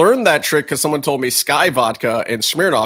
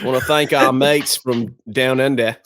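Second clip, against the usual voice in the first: put-on a light, slowed Australian accent; lightly put-on Australian accent, slow. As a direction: thank the Aussie mates in a mild Australian accent. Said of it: "Is this a good Australian accent?".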